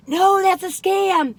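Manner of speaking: slow, firm no, lightly voiced; mock-stern slow scam warning; Penny's warning. Wife Penny retold warning her off a scam, mock-firm. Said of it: "And Penny will go".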